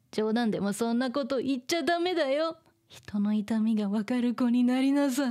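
stern scolding voice; scary voice. Acted. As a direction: scold firmly like a strict sister. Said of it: "using her scary voice".

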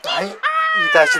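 high squeaky mock shout. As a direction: squeal the words. (높은 비명)

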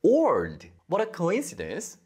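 acted surprise at meeting a friend. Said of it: "제가 놀라가지고". (친구를 우연히 만나 놀란 듯이)

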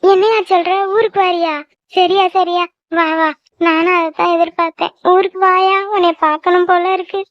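mildly excited, overjoyed mother; delighted. Acted. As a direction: react with happy surprise to welcome news, understated. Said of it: "அவ்வளவு சந்தோஷமா உனக்கு?". (மகிழ்ச்சியில் லேசாகப் பூரிக்கும் அம்மா)

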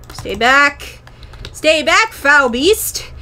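mock heroic. Gamer facing a creeper, loud mock-heroic command. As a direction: hold the line like a wizard.

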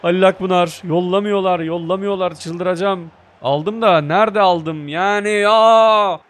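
loud, high exasperated outburst; frustrated yelling. Real, not acted. Gamer yelling at teammates who won't pass, exasperated. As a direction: vent at the useless teammates.

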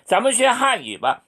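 slow and high, carefully articulated; slow demo; slow model sentence. Shown as a demonstration. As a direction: model it clearly for the class. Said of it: "이런 빠짜를 붙이면 됩니다".

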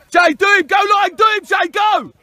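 real coach's yell; urging shout. Real, not acted. Coach urging player to attack.

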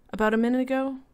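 high, uneasy question; nervous wife straining to hear; frightened. A narrator's reading.

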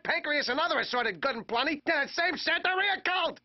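rising, heated rant; escalating comedy rant. Acted. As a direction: build the outrage.

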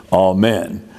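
amen stressed on the last syllable, a-MEN, falling; original stress. Shown as a demonstration. Teacher demonstrating the Orthodox stress on amen. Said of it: "keep the accent where it originally was".

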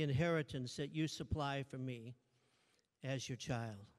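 measured, earnest prayer. Acted. Pastor praying to Father God as his child, prayerful.

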